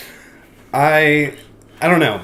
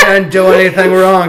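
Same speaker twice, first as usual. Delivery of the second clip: quoting the man; 6 semitones higher, 9 dB louder than usual. Retold or imitated. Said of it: "He's like".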